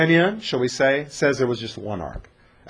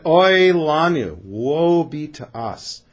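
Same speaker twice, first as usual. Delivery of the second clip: slow lament; much slower than usual. Pretend. Lamenting Philistines.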